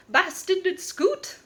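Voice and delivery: high, slow mock British accent, hammed-up; a bad put-on British accent, drawn out and high; mocking Rita Skeeter's British accent, slow and high; terrible Rita Skeeter accent. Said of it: "That was a terrible accent".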